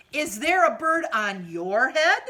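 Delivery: loud anxious question; alarmed elephant. Acted. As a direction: call out in worry. Elephant asks Piggy, alarmed.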